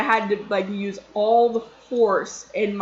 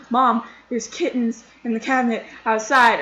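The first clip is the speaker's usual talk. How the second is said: louder, mock out-of-breath report; retold breathlessness; 3 semitones higher, 5 dB louder than usual. Kid explains to Mom after yelling, imitated breathlessness. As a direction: imitate getting the news out between breaths. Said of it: "I'm, like, heaving because I'm out of breath".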